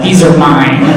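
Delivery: possessive, mumbled through a cookie; talking with a mouthful of cookie; mouth full. Retold or imitated. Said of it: "with a cookie in my mouth and said".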